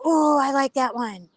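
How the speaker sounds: high, cooing enthusiasm; retold delight. Recalling spotting Kaya in the name list, delighted. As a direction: coo it high, as if just spotting it. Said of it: "I go".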